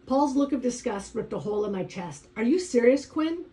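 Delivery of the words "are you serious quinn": disgusted. Acted. Paul disgusted at Quinn.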